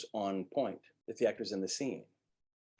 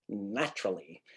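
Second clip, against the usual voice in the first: melodic; 2 semitones lower, 4 dB quieter than usual. Shown as a demonstration. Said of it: "like, in some melodic way".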